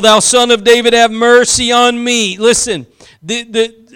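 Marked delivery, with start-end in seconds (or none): none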